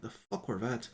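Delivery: soft grumbling whisper. Acted. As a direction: whisper it under your breath. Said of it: "whispering from Adagun".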